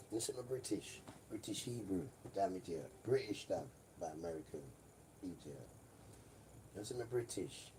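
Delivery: a put-on British accent, lightly done; mock British accent. Vlogger clowning for his audience in a mock British accent. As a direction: play a cheeky Londoner in a mock British accent. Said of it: "Time for some British".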